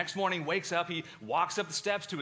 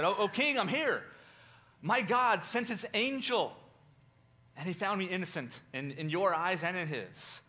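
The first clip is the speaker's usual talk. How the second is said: higher, louder joyful answer; Daniel answering the king from the den, higher and joyful; joyful reply; 5 semitones higher, 4 dB louder than usual. Retold or imitated. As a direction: call up to the king with relief.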